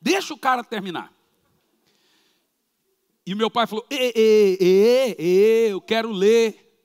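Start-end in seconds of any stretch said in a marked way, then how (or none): 3.9-6.7 loud imitation of a stammer, slow to break free; father stammering at the police chief, loud and slow; stuttering father. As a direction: get stuck on ê again and again before the words come. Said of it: "começou a gaguejar com o delegado".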